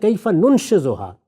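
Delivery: slow, deliberate recitation of two words; Quranic recitation. Shown as a demonstration. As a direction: draw out the verse words slowly. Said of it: "تو اس میں الفاظ آتے ہیں". (آہستہ تلاوت کے انداز میں)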